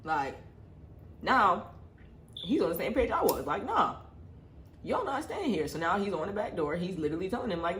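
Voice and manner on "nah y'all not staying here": put-on boyfriend refusing. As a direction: bark a flat no at the guests. Boyfriend voiced refusing them.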